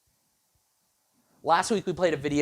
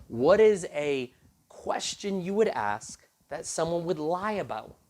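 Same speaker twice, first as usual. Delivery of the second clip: slow exasperated repeat; 2 semitones higher, slower than usual. Retold or imitated. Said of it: "he's like".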